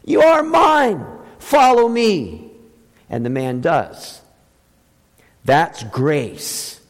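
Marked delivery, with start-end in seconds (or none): 0.0-2.5 rising fervent claim. Retold or imitated. Preacher voicing Jesus calling Levi, fervent and slow. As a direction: swell up on the repeat with conviction. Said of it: "And Jesus says to him".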